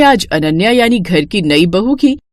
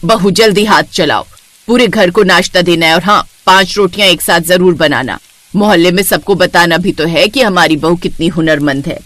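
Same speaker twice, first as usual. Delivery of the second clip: lightly voiced bossy saas, lower; mother-in-law hurrying her daughter-in-law; booming mother-in-law; 5 semitones lower than usual. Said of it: "घमघमाती आवाज में आई".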